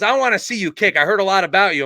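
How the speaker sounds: high, loud imitated coach; Nick Saban. Coach wants to see the recruit kick, loud imitated demand. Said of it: "Coach Saban said".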